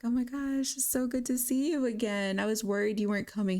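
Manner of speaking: excited greeting. Acted. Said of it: "She's like".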